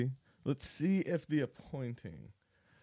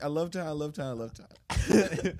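put-on Asian accent; 4 semitones higher, 6 dB louder than usual. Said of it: "You're almost doing an Asian accent".

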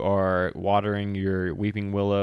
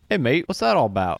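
lightly voiced Caleb; 4 semitones higher, 4 dB louder, faster than usual. GM voices Caleb, Aussie mate.

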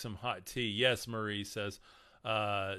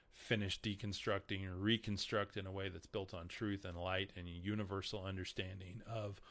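hoarse, failing voice; voice giving out. Real, not acted. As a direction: voice cracking and fading. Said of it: "Sorry, I'm losing my voice".

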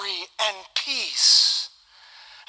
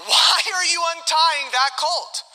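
slow, higher-pitched owner's challenge; questioning owner; 6 semitones higher than usual. Retold or imitated. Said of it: "the owner asked them".

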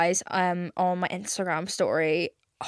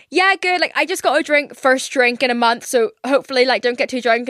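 flustered chirpy reply; 3 semitones higher, 4 dB louder than usual. Retold or imitated. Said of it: "I was like".

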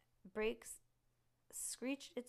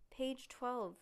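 higher, louder call; shouted; 5 semitones higher, 4 dB louder than usual. A narrator's reading. Stink shouts a clue mid-chase. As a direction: shout it across the street. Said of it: "Stink shouted".

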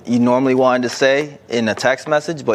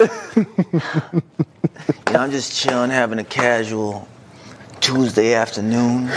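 phone sex voice. Retold or imitated. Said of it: "he got his phone sex voice".

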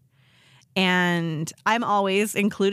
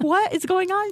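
retold bewildered question; 11 semitones higher than usual. Acted innocent reply to frantic caller.

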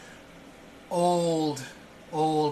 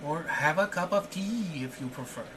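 eager invitation; 6 semitones higher than usual. Acted. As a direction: insist he come in for a drink. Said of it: "he goes".

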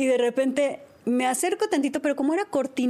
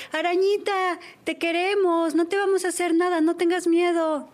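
calling out; 5 semitones higher than usual. Retold or imitated. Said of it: "empieza a gritarle".

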